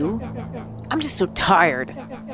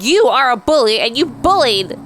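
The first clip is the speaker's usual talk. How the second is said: loud, higher, accusing outburst; angry accusation; 5 semitones higher, 5 dB louder than usual. Acted. Iggy shouting blame at Luca. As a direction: hurl the blame at him.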